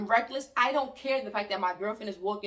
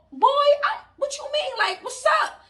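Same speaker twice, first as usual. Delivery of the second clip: loud confrontational; 6 dB louder than usual. Retold or imitated. Squaring up to charging sister.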